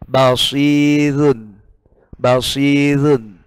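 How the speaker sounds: very slow Basirun with a thin r. Shown as a demonstration. Teacher showing the thin-r Basirun again. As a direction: stretch Basirun, the r light. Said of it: "Itu dibaca tipis".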